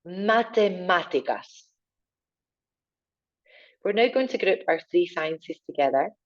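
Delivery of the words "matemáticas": matemáticas with a strong á, mate-MA-ticas; big stressed a. Shown as a demonstration. Teacher repeating matemáticas with an angry á. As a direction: lean on the á of matemáticas. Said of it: "Another angry A happening here too".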